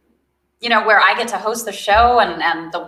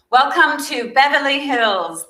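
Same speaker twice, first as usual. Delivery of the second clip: slow, higher South African accent greeting; 7 semitones higher than usual. Shown as a demonstration. Guest tries her South African accent for the show, slow and high. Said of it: "Let me try".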